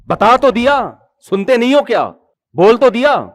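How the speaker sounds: impatient mock outburst at an old father; snappy retort. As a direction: snap back like a rude son. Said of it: "یہ style جا کے اپنے باس کے ساتھ کرو".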